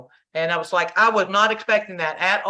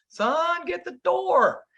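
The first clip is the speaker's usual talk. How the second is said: calling out; 13 semitones higher, much slower than usual. Retold or imitated. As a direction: shout it through the house. Calling son from another room.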